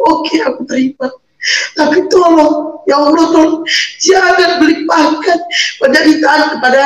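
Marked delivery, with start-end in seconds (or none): 0.1-1.1 quiet, choked-up acceptance; soft crying resignation; tearful. Real, not acted. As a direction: swallow the tears as you give in. Tearful acceptance of her fate.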